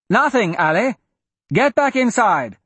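put-on high, urgent call to a child; urgent shout. A narrator's reading. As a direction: call out sharply to send her inside. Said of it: "Wyatt shouted".

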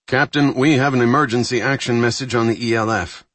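urgent, pressing report. Acted. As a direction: break the news with urgency.

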